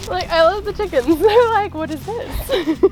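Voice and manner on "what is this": slow, high puzzled chicken; curious chicken voice. Retold or imitated. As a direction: voice a baffled hen.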